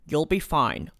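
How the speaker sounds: understated, unbothered reassurance; mildly calm reply. A narrator's reading. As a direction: say it evenly, unworried. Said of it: "he informed me calmly".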